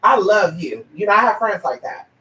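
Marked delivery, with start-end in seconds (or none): 0.0-0.9 mock backpedal. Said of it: "And then all of a sudden".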